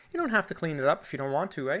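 quick Canadian lilt with a tag "eh"; Canadian accent. Real, not acted. Artist reassuring viewers about cleanup, Canadian accent. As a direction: slip into a light Canadian accent. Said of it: "a little bit of my Canadian accent".

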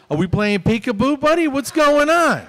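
fed-up talk to a grown man acting like a toddler; frustrated dental patient scolding. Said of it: "Just frustrated".

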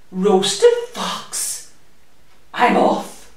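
fox squeaks in alarm and bolts. Acted. Fox alarmed at mouse's menu.

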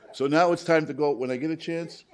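carried on the laugh. Real, not acted. Telling about traveling with a friend, laughing.

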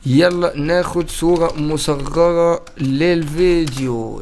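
drawn-out group call. Real, not acted. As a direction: call it out long and slow to the group. Announcing the thumbnail photo.

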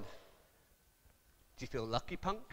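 very low, slow, menacing growl of a movie cop; tough movie cop. Retold or imitated. Preacher imitating a menacing film cop, low and slow. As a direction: drop deep and quiet like Dirty Harry. Quoting Dirty Harry line.

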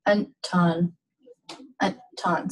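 "anton" with the N cut off abruptly before "ton"; "anton" as an', tiny break, ton; abrupt ejective N. Shown as a demonstration. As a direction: stop short after the N in "anton". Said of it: "So it's that abrupt".

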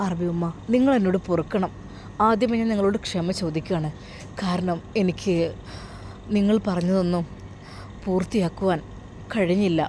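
subdued, halting confession; tearful apology. Acted. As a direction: softly beg forgiveness, pausing often. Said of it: "കരയാതെ കാര്യം പറയൂ". (വിഷമത്തോടെ ഇടറി ക്ഷമ ചോദിച്ച്)

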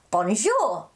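"bonjour" said slowly the French way, bon-zhoor; a slow "bonjour" for children to repeat; French pronunciation. Shown as a demonstration. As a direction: model "bonjour" carefully for kids to copy. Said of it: "To say hello in French, you say".

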